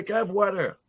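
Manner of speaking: put-on "water" in a non-American accent; old pronunciation. Recalling asking for water, "water" in the old foreign way. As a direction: say "water" as a French newcomer would. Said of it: "I used to say".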